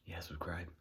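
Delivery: whisper. Acted. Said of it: "whispered plea to subscribe".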